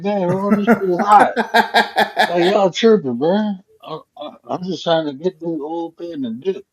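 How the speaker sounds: half-laughing mock protest; laughing complaint. Him complaining the fuss is ruining his high, laughing.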